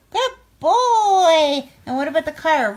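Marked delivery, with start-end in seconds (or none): 0.1-1.7 high, loud praise for the dog; excited praise. Real, not acted. Owner praising dog for a trick, loud and excited. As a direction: cheer him on.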